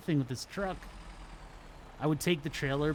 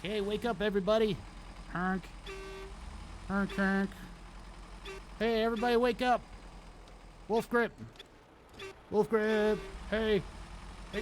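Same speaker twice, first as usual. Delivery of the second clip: silly clown; 8 semitones higher than usual. Pretend. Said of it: "And you're like".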